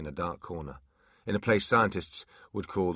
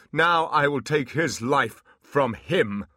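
slow loud demon threat; menacing demon; 7 semitones higher, 7 dB louder, slower than usual. Acted. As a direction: vow revenge like a demon.

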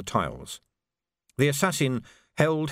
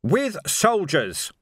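high, slow, drawn-out yell; screamed; 6 semitones higher, 3 dB louder, much slower than usual. A narrator's reading. Vimes punching a climber, screaming. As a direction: bellow it mid-punch, stretching the words. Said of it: "he screamed".

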